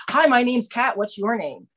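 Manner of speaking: hint of a peppy newcomer greeting; bubbly girl. Chairperson greets a newcomer at the meeting, bubbly and high. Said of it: "bubbly girl".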